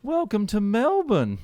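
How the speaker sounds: sing-song it up and down like an Aussie; Australian impression. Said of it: "He's all up and down".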